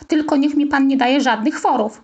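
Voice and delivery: put-on boy eagerly calls out to the coach; happy shout. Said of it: "krzyknął ucieszony Rafał". (radosny okrzyk, lekko głośniej)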